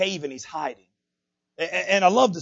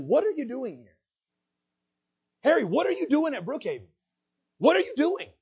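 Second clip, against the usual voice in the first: raised-pitch challenge to each person by name; pressing question; 7 semitones higher than usual. Retold or imitated. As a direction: call them out one by one, higher. Preacher calls members out with God's question.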